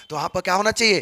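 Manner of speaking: ordinary talk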